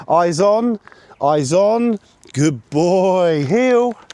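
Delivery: bright high-pitched call to the dog; high dog command. Real, not acted. Handler calling his puppy to heel, high and loud.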